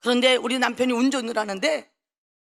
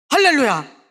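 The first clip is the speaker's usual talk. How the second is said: hallelujah cry; 6 dB louder than usual. Real, not acted. Preacher's exclamation.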